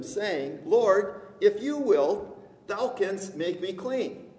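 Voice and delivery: declaimed Bible story, swelling on the plea; scripture reading. Acted. Preacher reading the leper's story to church, declaimed. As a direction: read the passage out to the congregation. Reads scripture aloud to congregation.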